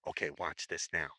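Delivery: low, hushed aside to a friend; under his breath. Retold or imitated. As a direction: drop it to a secretive murmur. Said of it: "I whisper under my breath to Ken".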